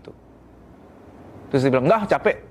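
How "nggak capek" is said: short, dismissive "Nggak, capek."; curt refusal. Shown as a demonstration. Wife brushing off husband's request: curt refusal. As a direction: brush him off flatly, "Nggak" clipped. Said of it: "istri nggak boleh ngomong gitu".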